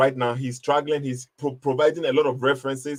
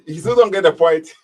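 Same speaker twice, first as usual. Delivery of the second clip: mocking; 7 dB louder than usual. Real, not acted. Mocking the caller to listeners.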